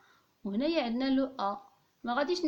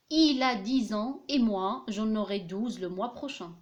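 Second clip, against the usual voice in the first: slow dictation reading; much slower than usual. Shown as a demonstration. Dictating the example sentence.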